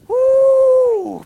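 high, loud, sustained "woo"; preacher's whoop. Real, not acted. Preacher overcome after his point, high exultant whoop. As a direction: let out a long high whoop.

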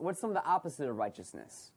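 usual speaking voice

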